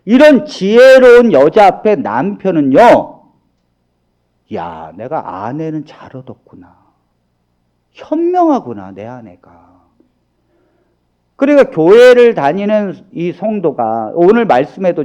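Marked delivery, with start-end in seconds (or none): 4.6-9.7 husband musing softly. Retold or imitated. Husband admiring wife, musing.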